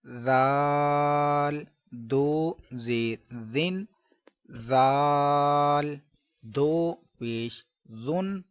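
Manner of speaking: slow drill, जाल long and soft; soft zaal drill. Shown as a demonstration. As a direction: stretch जाल out softly with no hiss. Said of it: "नरमी से जाल".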